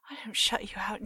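soft loving whisper. Acted. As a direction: whisper sweetly to a pet. Whispering to cat.

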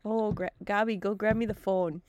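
lightly hammed-up Wisconsin accent; exaggerated Wisconsin accent. Shown as a demonstration. Host showing off their own accent, exaggerated Wisconsin. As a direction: lean into Wisconsin vowels. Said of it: "It exaggerated your own accent".

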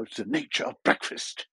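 lightly voiced nature-documentary narrator; a hint of hushed British nature narration; David Attenborough. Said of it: "as a kind of David Attenborough nature type".

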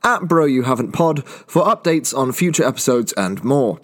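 even, announcer-style outro; podcast outro read. Acted. Host reading the outro credits to listeners, announcer style. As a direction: read it like a sign-off ad.

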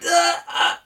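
high, broken stammer; stammering pilot. Acted. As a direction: pilot at a loss for words. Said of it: "announcement comes over the speaker".

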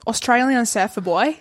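put-on light Aussie surfer accent; a hint of Australian twang. Voices an Aussie surfer option.

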